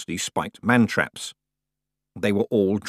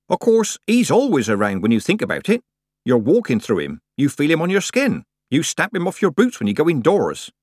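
lively, raised country-woman chatter; teasing Nanny; 7 semitones higher, 5 dB louder than usual. Acted. Nanny teases Tiffany about her admirer, shameless. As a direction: prattle on teasingly, pitched up.

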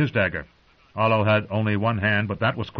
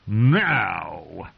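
growled. Acted. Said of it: "he growled".

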